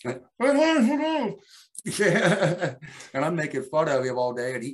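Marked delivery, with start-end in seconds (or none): 0.3-1.3 high, loud wordless noise; imitated muffled protest. Mocking co-host who cannot retort, muffled protesting. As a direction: mimic someone trying to talk with mouth covered.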